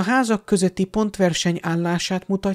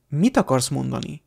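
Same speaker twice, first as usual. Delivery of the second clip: unenthusiastic; 2 semitones lower than usual. Acted. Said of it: "kérdezte Harry mérsékelt lelkesedéssel".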